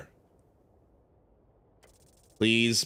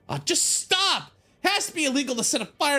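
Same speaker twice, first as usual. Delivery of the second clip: high exasperated plea; pleading shout; 3 dB louder than usual. Acted. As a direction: beg him to quit, strained. Player begging kid to stop.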